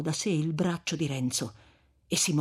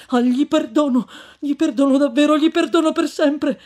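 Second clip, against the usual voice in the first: louder, higher, fervent cry of forgiveness; exclaiming; 10 semitones higher, 10 dB louder than usual. Acted. Young Renzo crying out forgiveness to the friar, fervent exclamation. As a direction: blurt it out, desperate to be believed. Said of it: "esclamò il giovine".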